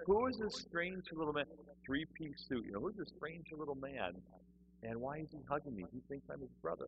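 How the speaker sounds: mock bewilderment, kept under the voice; baffled aside. Newcomer wondering about the man hugging him, baffled and hushed.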